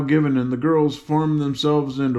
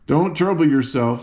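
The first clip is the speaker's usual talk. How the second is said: cheerful; 3 semitones higher than usual. Acted. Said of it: "said Ginger cheerfully".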